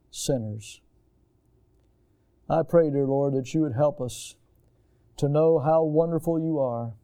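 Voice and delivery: steady, earnest prayer voice; a pastor closes the service in prayer; pastoral prayer. Acted. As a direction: pray over the congregation, reverent and measured. Pastor leads closing prayer.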